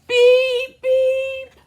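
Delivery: high robot beep; squeaky robot beeping. Acted. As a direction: chirp it like a little robot.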